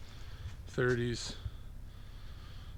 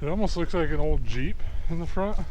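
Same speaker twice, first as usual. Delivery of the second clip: loud, raised voice against the wind; shouting over wind; 2 semitones higher, 8 dB louder than usual. Real, not acted. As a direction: shout to be heard in the gusts. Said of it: "Sorry about the wind noise".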